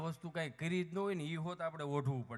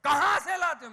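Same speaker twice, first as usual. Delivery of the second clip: Hindi fan asking; 11 semitones higher, 18 dB louder than usual. Retold or imitated. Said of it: "મેં".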